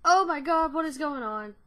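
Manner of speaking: loud, high burst of alarm; alarmed outburst. Real, not acted. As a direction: yell it at the screen. Scared during horror game.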